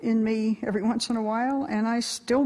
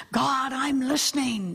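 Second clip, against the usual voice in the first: lightly voiced seeker, words held out; meditator calling to God. Meditator tells God he is listening, lightly acted prayerful call.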